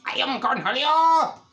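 slow, high, booming self-introduction; grand announcement. Pretend. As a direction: declare it like a proud hero. Kid announces himself to camera.

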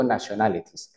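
"nationalities" with the E before the final S silent; E muda. Shown as a demonstration. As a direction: end "nationalities" in -tis, leaving out the E. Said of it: "esa E antes de la S es completamente muda". ("nationalities" con la E antes de la S muda)

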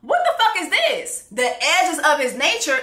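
high, laughing, indignant clapback; mock indignant queen. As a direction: snap back high in laughing outrage. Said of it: "And Queen Charlotte is like".

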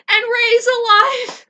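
high, loud, crying with joy; teary joyful squeal. Real, not acted. Fan celebrating Rei's fate, high teary squeal. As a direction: squeal it through happy tears. Overjoyed about Rei surviving.

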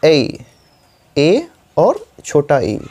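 ए said as ei, a light short i glide after e; slow, drawn ए gliding into a faint ee; correct letter A. Shown as a demonstration. Teacher drawls ए slowly for students. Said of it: "correct उच्चारण है".

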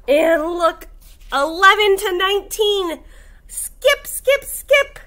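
high, loud chant of skip skip skip; excited reveal. Acted. Teacher showing the teen numbers, bouncy and excited. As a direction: bounce the words playfully.

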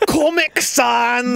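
high, drawn-out mock gravity; slow mock solemn. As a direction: draw it out solemnly. Slow mock solemn font talk.

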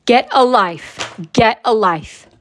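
exasperated. Real, not acted. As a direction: scold the pet, fed up. Snapping at the pet.

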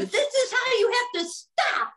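a hint of a coach, high and laughing. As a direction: cheerfully demonstrate to a beginner skater. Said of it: "as a coach".

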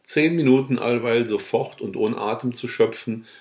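plain reading voice

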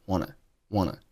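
want to reduced to wanna; contraction wanna. Shown as a demonstration. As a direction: blend want to into one quick wanna. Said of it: "wanna就是want to的缩读".

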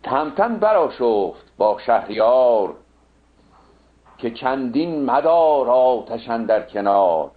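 forceful metrical declaiming with long, drawn-out words; epic verse recitation. Acted. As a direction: declaim the hero's outburst in stately verse. (دکلمهٔ حماسی، محکم و کشیده)

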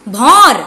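भौर said loudly with an open "au" vowel; misspelling भौर read out as written; wrong vowel. Shown as a demonstration. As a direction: sound भौर with औ, as "bhaur". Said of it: "भौर नहीं होता".

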